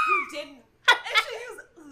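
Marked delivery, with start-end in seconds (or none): 0.1-0.6 high, laughing spooky voice; a hammed-up voice out of the dark; voice from the darkness. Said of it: "a voice from the darkness says".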